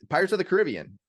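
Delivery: high-pitched insistence, Caribbean as kuh-RIB-ee-un; stress on the second syllable. Shown as a demonstration. Host correcting Emily on the movie name, Caribbean as kuh-RIB-ee-un. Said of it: "how do you say the Pirates movie name".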